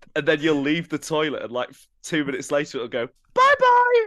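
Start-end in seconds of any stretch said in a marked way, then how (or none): 3.3-4.0 put-on child voice, much higher and louder. Imitating a smart toilet's farewell after you leave, in a child's voice. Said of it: "With a child's voice".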